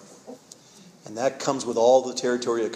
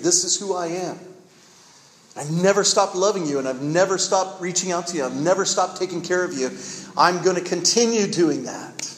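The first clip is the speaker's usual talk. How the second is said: higher-pitched, emphatic pledge as God; impassioned declaration; 5 semitones higher than usual. Retold or imitated. God declaring faithful love to the people, impassioned.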